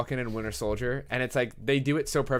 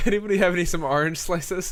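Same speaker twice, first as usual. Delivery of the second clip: higher, slowed half-time ask; mock kid athlete; 6 semitones higher than usual. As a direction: ham up a tired kid after practice. Joking impression after a game.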